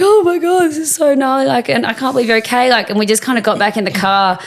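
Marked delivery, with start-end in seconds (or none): 0.0-2.7 high, overwhelmed outburst; acted shock, starting high and easing down; retold distress. Girl to the friend who survived, retold distress.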